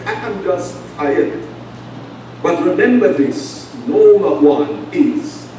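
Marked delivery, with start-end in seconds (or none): 0.1-1.4 softer, slow, worn-out admission; a tired confession, half-sighed; weary sigh. Retold or imitated. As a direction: let it sink, drained and quiet. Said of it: "there comes a time that you say".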